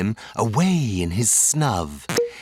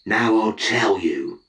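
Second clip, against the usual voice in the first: lightly voiced Onceler; 4 semitones lower than usual. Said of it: "with his teeth sounding grey".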